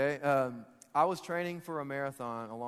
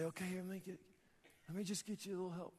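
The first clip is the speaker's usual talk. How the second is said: much softer, feeble helper; half-hearted offer; 2 semitones higher, 11 dB quieter, faster than usual. Acted. Bystander on shore to sufferer, half-hearted offer. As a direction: toss it off quietly, barely committing.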